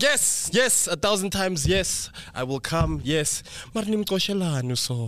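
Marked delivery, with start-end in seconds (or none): 0.0-3.4 eager yes. Retold or imitated. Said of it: "I was like".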